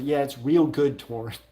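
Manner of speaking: mock passive-aggressive praise. Streamer voicing a chat message to Torrance, passive-aggressively. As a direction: lay on the insincere approval a little. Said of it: "like, incredibly passive-aggressively".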